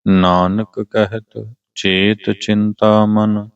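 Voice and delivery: slow, measured recitation of a sacred hymn; scripture recitation. Acted. Reciting the Ramkali hymn for listeners before explaining it, slow reverent recitation. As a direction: recite each word deliberately, drawing out the line endings.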